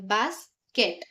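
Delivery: "बास्केट" slowly, broken after बास; split into syllables. Shown as a demonstration. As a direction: say बास्केट in two parts, बास, केट. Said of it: "divide करना है".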